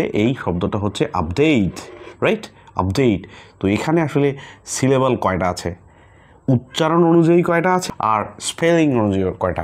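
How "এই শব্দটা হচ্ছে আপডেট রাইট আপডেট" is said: আপডেট said slowly, apdeit with silent e; model word. Shown as a demonstration. Teacher models আপডেট for class, slow and clear. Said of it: "একটা প্রশ্ন তোমাদের কাছে".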